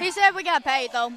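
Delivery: talking around a hard candy; candy in the cheek while talking; sucking a hard candy. Real, not acted. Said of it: "you got candy in your mouth".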